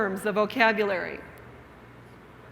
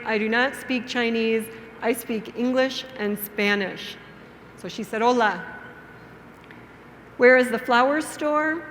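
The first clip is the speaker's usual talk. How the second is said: measured storytelling with clear pauses; story for beginners. Shown as a demonstration. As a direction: tell it simply, phrase by phrase, for language learners. Reads simple story to language learners.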